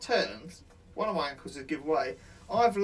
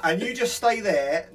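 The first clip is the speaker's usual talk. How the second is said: laughing quote; 4 semitones higher, 6 dB louder, slower than usual. Real, not acted. Quoting plan, laughing.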